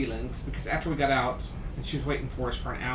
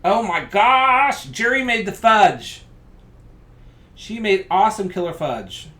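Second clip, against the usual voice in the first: excited; 6 semitones higher, 11 dB louder than usual. Real, not acted. Thrilled about Jerry's fudge.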